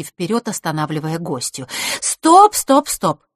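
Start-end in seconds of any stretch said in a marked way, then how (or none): 2.0-2.5 stop call. Acted. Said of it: "миролюбиво сказала она". 2.5-3.3 softer stop. Acted. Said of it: "миролюбиво сказала она".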